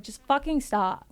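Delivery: exasperated just fucking stop; exasperated snap. Retold or imitated. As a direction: cut him off flat out. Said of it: "I'm like".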